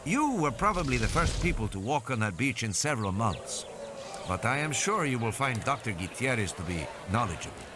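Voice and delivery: a hint of a courteous, informative doctor; lightly voiced doctor. Doctor answering father about the beach, lightly voiced doctor.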